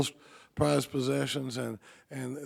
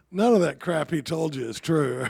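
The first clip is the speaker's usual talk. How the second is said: put-on blunt old farmer; 6 dB louder than usual. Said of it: "And the guy goes".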